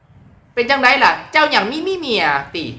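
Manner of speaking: slow Korat dialect question. Shown as a demonstration. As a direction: ask about a wife in Korat dialect. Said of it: "เว้าภาษาโคราชนี่".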